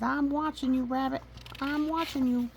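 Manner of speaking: high, loud accusing squeak; suspicious guinea pig. Acted. Guinea pig warning the rabbit, high and loud. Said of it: "He says".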